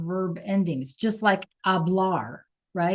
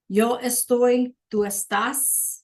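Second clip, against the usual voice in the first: slow model reading; 3 semitones higher, slower than usual. Shown as a demonstration. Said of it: "just like an A R verb".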